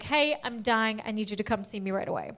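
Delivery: hammed-up dying whisper; mock dying voice. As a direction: read the text like a faked deathbed plea. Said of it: "that's like".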